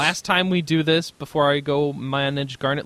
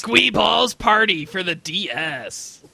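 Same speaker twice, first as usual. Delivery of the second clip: used car salesman voice; slower than usual. Acted. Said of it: "hardcore edgy voice".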